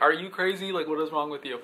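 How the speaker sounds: toned-down, private mock disbelief; inner self-scolding. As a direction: tell yourself off under your breath. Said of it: "in my head I'm like".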